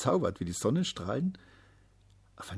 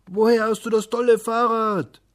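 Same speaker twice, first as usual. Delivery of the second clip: put-on high, loud excited kid; child's voice; 13 semitones higher, 12 dB louder than usual. A narrator's reading. Schoolmate asking the boy about his bike, high and excited. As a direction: ask like an eager schoolboy.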